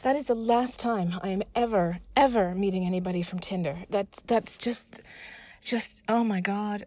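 indignant, slowing into exasperation; fed up and mad. Acted. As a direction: vent anger, leaning on the words. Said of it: "man, I'm so mad".

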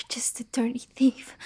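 soft, whispered dirty thief; whispered insult. Acted. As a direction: hiss it quietly with a rise. Repeats insult in two ways.

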